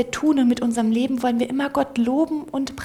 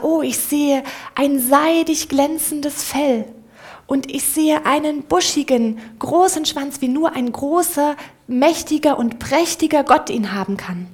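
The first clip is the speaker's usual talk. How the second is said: rapturous praise; 4 semitones higher, 5 dB louder than usual. Acted. The mouse praises the mighty God, higher and louder. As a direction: gush with admiring wonder.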